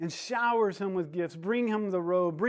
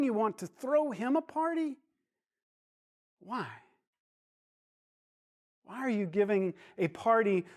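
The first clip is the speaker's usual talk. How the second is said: higher pitched, aggrieved protest to Dad; angry complaint; 5 semitones higher than usual. Acted. Older son confronting his father about the party, hurt and angry. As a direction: pour out years of resentment at the father. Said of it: "he's angry about his father".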